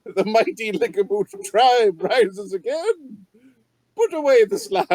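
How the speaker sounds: lightly voiced tribal chieftain; tribal chief voice. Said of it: "mimic Chieftain Lickaboot's voice".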